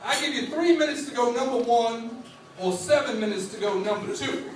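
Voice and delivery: lightly voiced Southern teacher; a touch of the strict old teacher. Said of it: "And he would say".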